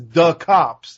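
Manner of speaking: mock foreign accent on "The cops", lightly put on; a light parody of the clerk's accent saying "The cops". Piper mimicking the clerk's accent on "The cops", lightly mocking. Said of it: "he's mocking the guy's accent".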